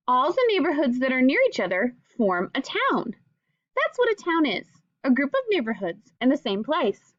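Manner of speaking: clear, gentle read-aloud to a class; reading to children. Acted. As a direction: read the book aloud to young pupils, patiently. Teacher reads picture book to class.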